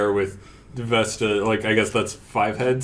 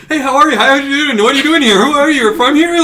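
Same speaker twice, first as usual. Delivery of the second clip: very high, rapid-fire gush of questions; super energetic; 8 dB louder, faster than usual. Acted. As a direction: fire off every question at once, bouncing with excitement. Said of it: "super energetic and just being like".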